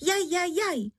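high yelping cries of pain; wife yelping high in pain under the candle; crying out in pain. A narrator's reading. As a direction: yelp as the candle burns her head. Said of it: "že se dala do křiku".

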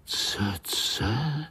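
breathy astonished whisper of the strange word; amazed whisper. Acted. Little spiders wondering at the uncle's word, whispered. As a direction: hush it, wide-eyed. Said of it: "žasli pavoučci".

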